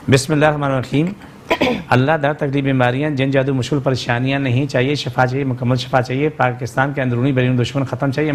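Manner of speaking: earnest dua recited steadily; fervent prayer. Acted. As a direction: pray aloud for everyone's healing. Leads a prayer for callers. (जोश भरी दुआ)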